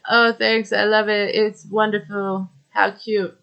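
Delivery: flat, unimpressed monotone. Retold or imitated. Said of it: "she's, like, monotone".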